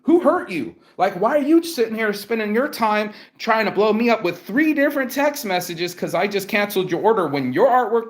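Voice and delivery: high, pushed-up disbelief at her; who hurt you, pitched high; retold rant to the rude client, pitched high; exasperated rant. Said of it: "And I'm like".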